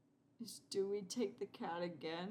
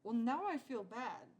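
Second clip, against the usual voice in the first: louder, higher whiny guilt; guilty whine; 5 semitones higher, 7 dB louder than usual. Real, not acted. Player whines at the sad cat, louder. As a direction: moan that you feel guilty.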